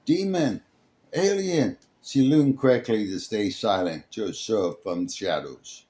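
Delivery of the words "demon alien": much higher, panicked shouts; terrified cries. Acted. Fleeing people shout at her, high and panicked. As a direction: cry out in fear.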